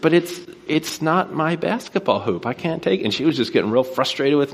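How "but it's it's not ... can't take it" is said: higher-pitched, mildly exasperated protest; lightly acted pushback; retold protest. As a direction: plead your case to a stubborn neighbor. Protesting to the insistent neighbor.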